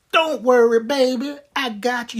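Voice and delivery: mild sweet grandma voice; lightly voiced grandmama. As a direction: soothe him like a doting granny. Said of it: "Cheryl is like".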